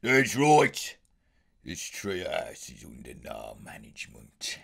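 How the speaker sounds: Brummy growl, puffing himself up; a kid bossing the treehouse; childish bully Arthur. Shown as a demonstration. Arthur as a child bullying other kids, gruff Brummy. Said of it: "always trying to bully the other kids".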